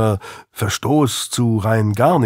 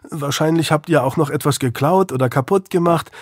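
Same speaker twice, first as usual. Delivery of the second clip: higher, youthful defiant voice; defiant teenage boy; 4 semitones higher than usual. Acted. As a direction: push back like a sulky teen. Narrator voices Louis.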